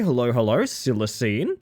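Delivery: ordinary talk, nothing marked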